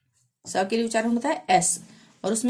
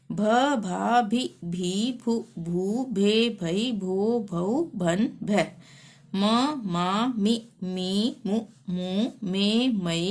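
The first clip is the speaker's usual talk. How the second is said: measured sing-song letter chanting; syllable drill recitation; much slower than usual. Shown as a demonstration. Teacher reciting Hindi syllables for learners, sing-song drill. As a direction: recite each syllable separately with a lilt.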